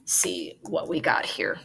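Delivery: whispered aside to herself. Real, not acted. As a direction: breathe it while searching the screen. Muttering to herself while searching.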